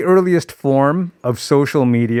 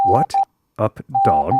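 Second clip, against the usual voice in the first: mock translator; 3 semitones lower than usual. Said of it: "I'm a translator of Morse code".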